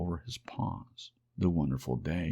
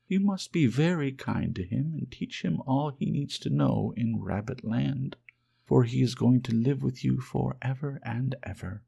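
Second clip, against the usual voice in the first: high, louder, announcing; bright fairy voice; 7 semitones higher, 4 dB louder than usual. Acted. Fairy announcing the new rabbit to the wild rabbits, bright and high. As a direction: present the newcomer gladly.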